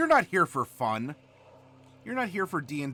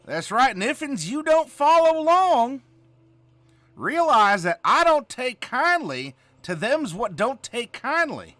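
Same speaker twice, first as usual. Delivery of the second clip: put-on Southern hick accent; 3 semitones higher, 3 dB louder than usual. Streamer lecturing the class in an exaggerated Southern accent. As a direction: play a backwoods Southern schoolteacher. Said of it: "With this here accent".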